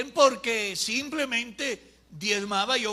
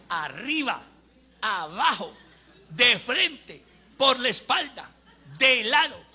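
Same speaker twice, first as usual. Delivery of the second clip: short separate bursts, rising and getting louder; sword-swinging beats; 2 semitones higher, 5 dB louder, slower than usual. Acted. Preacher describing a colleague wielding the sword, in punched beats. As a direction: punch out each direction like a blow.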